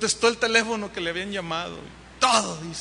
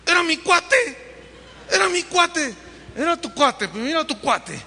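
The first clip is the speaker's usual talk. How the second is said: heated prophet; 2 semitones higher than usual. Acted. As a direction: scold him fiercely, then let it settle. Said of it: "Y Saúl viéndolo así".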